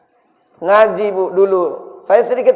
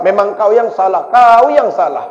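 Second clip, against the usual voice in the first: louder scolding, stress on kau; mock old-school mum scolding; scolding mother; 6 dB louder than usual. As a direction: scold the kid for being at fault.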